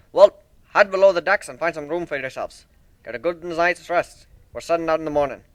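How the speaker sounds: lightly voiced proud shipbuilder. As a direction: show off your ship like a proud craftsman. Steelhorn sends them to rest.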